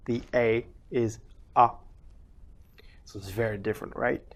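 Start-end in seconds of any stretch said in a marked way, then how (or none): 0.3-0.7 French letter A as open "ah". Shown as a demonstration. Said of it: "in my mother tongue".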